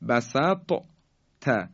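بسط with a released heavy ط, a pause, then ت apart; letters sounded separately. Shown as a demonstration. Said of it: "بعد از اون ته دو نقطه اومده".

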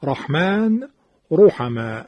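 heavy, full R in رحمن، رحمه. Shown as a demonstration. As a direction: model رحمن، رحمه with thickened R. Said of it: "تفخیم". (رحمن، رحمه با تفخیم راء)

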